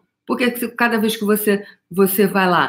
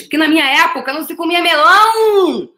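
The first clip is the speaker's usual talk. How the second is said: exclaiming; 10 semitones higher, 5 dB louder than usual. Real, not acted. Exclaiming about melon as rich food.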